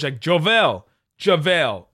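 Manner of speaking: "JaVale" sounded out with a clear V; JaVale pronunciation. Shown as a demonstration. Podcaster showing a tricky name, "JaVale" with a V. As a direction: punch out "JaVale" as a pronunciation demo. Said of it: "the sounds in those words".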